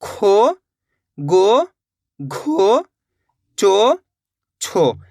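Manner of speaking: one drawn-out syllable at a time, long pauses between; syllable drill. Shown as a demonstration. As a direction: stretch each "को, खो, गो" on a long o. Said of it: "आपको practice कैसे करनी है?". (एक-एक अक्षर खींचकर अभ्यास)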